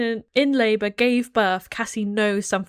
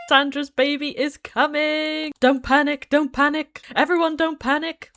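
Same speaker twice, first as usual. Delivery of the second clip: mock panic; 6 semitones higher, 4 dB louder than usual. Mock panic as baby comes.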